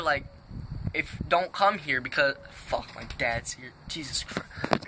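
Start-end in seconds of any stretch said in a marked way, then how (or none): 2.5-4.8 alarmed hush. Real, not acted. Dad suddenly arrives, alarmed.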